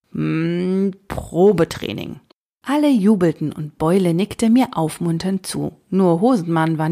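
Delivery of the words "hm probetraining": slow verdict. Acted. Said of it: "musterte mich ... beschloss nach einer Ewigkeit".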